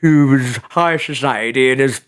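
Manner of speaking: slow, drawn-out hint of an old toff; Rupert. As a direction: slip slightly into a slow old gentleman. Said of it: "developed this character named Rupert".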